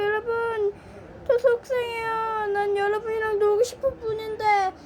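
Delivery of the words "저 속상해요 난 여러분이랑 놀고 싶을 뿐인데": higher, teary whine; mock sulky crying. Toy whining to viewers, mock crying. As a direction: sulk like a toy who only wants to play.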